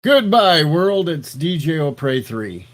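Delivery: high, loud mock show sign-off; big silly announcement voice; put-on shouted farewell. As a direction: call out a hammy goodbye to the world. Trying another silly intro voice.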